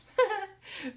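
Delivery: loud, high embarrassed laugh; real laugh at a crafting flub; high burst of laughter. Real, not acted. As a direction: burst out laughing at your own slip. After cutting too short.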